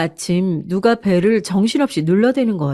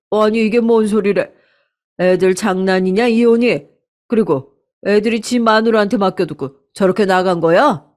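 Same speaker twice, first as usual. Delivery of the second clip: outraged father. Acted. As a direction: rail at a son-in-law who walked out. 아빠가 이혼 소식에 격분. (이혼 얘기에 기가 막힌 아빠, 약간 큰 목소리로 역정)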